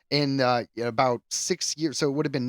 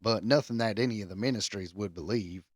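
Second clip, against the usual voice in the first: put-on lightly drawled Southern accent on an English rocker's words. Podcaster reading a rocker's quote in a Southern accent. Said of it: "I'm going back to Southern".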